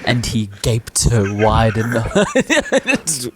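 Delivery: slow, drawn-out mock audiobook read; hammed-up slow erotic narration; smut audiobook narrator. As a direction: read it like smut playing aloud, dragging the words. Mimes smut audiobook playing at crash.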